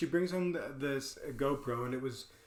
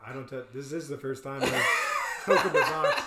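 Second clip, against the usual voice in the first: laughing; 4 dB louder than usual. Retold or imitated. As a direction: laugh bursting mid-sentence. Own realization, laughing.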